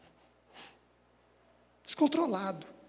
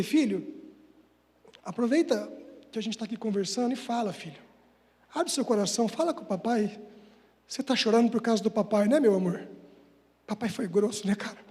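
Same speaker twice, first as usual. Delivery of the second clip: pai carinhoso; 4 semitones lower than usual. Retold or imitated. Father comforting crying son.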